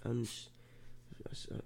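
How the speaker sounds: stuffy, congested voice. Real, not acted. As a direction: speak through blocked sinuses. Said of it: "you can probably hear it in my voice".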